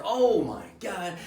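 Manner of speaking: high, loud, drawn-out lament; mock crying wail. Patient shot in the prostate, mock crying wail. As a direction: stretch it into a comic moan of pain. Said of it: "I start crying".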